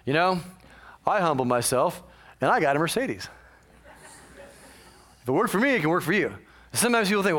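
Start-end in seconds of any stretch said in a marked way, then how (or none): 1.1-6.0 infomercial voice. Pretend. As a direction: sell it like a late-night ad. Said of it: "Let's say, like, an infomercial".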